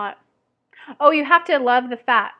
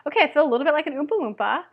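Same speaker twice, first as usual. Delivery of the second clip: fun way; 3 semitones higher, faster than usual. Shown as a demonstration. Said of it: "at least say it in a fun way".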